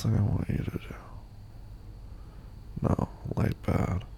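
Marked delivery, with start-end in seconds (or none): 2.8-4.0 slow groggy caveman words; hungover. Real, not acted. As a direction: mumble it slowly, wrecked. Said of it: "I'm so hungover".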